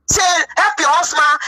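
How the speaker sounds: slow, crying plea to help her husband; tearful plea. Retold or imitated. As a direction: beg through tears. Pleading with German first lady.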